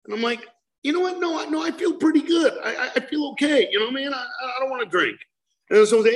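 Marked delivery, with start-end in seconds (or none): 0.8-5.2 cocky refusal. Retold or imitated. His cocky refusal of a drink.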